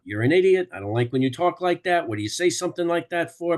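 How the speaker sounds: high, loud argumentative outburst; mock quarrel. Brothers arguing at the dinner table, high loud mock anger.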